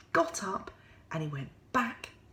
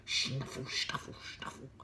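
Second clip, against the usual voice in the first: hedgehog snuffle; 5 semitones lower, 7 dB quieter than usual. Acted. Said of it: "went the hedgehog".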